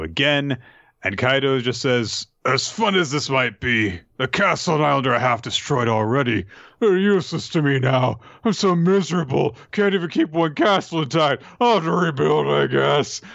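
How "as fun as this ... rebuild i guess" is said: hammed-up miserable drunk, higher pitch; mock-tearful lament, rising then drawing out; maudlin drunken villain. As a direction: wail self-pityingly like a sad drunk character. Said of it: "he's so upset about everything".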